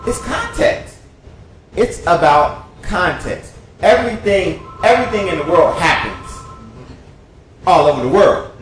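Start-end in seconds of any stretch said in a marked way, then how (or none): 0.1-5.8 high-pitched quote for emphasis; retold insistence. Quoting the singer's post, high and emphatic. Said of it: "because she's like".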